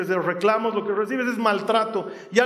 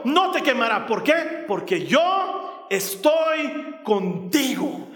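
full-force preaching; 3 semitones higher than usual. Acted. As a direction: proclaim it from the pulpit with fervour.

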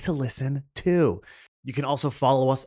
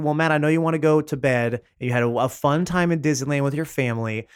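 listener voice; 3 semitones higher than usual. Acted. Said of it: "you might be thinking".

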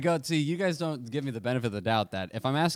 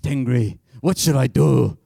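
put-on eleven-year-old me; 8 dB louder, slower than usual. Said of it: "That's how I sounded when I was eleven".

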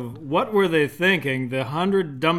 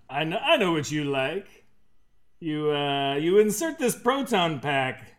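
reading a creepy line in a lightly put-on voice; creepy quote voice; 2 semitones higher, 3 dB louder than usual. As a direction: voice it like a creepy seducer. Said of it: "He says, uh, here's his quote".

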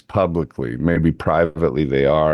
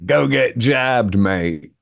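mock musician; 4 semitones higher, much slower than usual. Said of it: "they were completely like".

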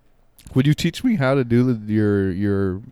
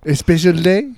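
mock surprise; 6 semitones higher than usual. Waiter improv, mock surprise.

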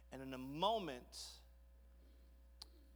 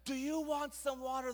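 high, excited rallying question; hammed-up motivational speaker; 8 semitones higher than usual. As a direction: work the crowd up. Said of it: "going all motivational speaker here. He's super excited".

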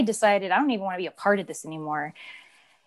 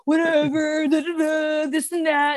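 dismissive whatever; 6 semitones higher than usual. Retold or imitated. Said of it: "I called you and, like".

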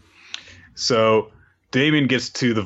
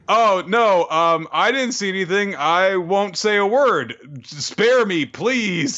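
much higher, slow, hammed-up fear; high mock pleading; 10 semitones higher, slower than usual. Recapping the witness pleading, high mock fear. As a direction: beg for your life, comically.

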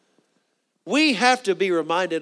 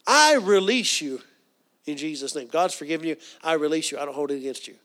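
releasing forgiveness. Shown as a demonstration. Speaker showing the congregation how to forgive, earnestly. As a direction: let it go gently. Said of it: "And what do you do?".

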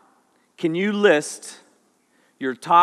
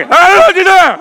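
much higher, louder alarmed hey; startled friend; 11 semitones higher, 10 dB louder than usual. Retold or imitated. Friend in truck spotting trouble, alarmed and higher. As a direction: blurt it out in alarm. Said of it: "And he's like".

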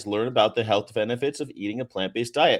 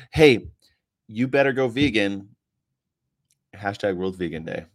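mock preachy post; 4 dB louder than usual. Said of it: "It'll say something like this".

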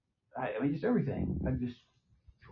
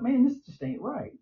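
inner thought; 10 semitones higher than usual. Retold or imitated. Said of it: "but I thought".

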